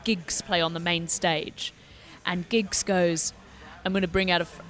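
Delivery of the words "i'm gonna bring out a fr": accidental American accent imitating the rapper. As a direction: slip into an American accent for the quote. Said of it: "why he had an American accent".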